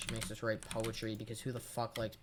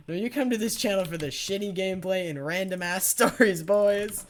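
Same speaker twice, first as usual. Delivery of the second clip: loud, higher-pitched boast to the audience; hyped announcement; 6 semitones higher, 9 dB louder than usual. Real, not acted. Streamer hyping his channel to viewers, hyped and loud. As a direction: punch it up louder toward the last word.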